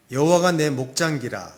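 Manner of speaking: playful Gyeongsang dialect rendering of scripture; Gyeongsang accent. Acted. Preacher shares a dialect psalm with congregation, Gyeongsang accent. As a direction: recite it in Gyeongsang dialect, punching the opening. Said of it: "경상도 버전이 있습니다".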